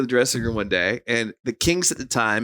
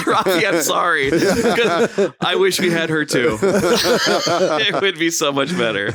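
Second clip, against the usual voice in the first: laughing while speaking; 4 semitones higher, much slower than usual. Real, not acted. Laughing through a quote.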